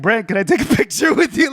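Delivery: high, laughing fan request; awkward laughing request. Retold or imitated. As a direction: ask sheepishly, breaking into a laugh.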